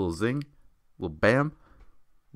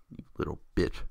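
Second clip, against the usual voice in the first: muttered insult; 5 dB quieter than usual. Real, not acted.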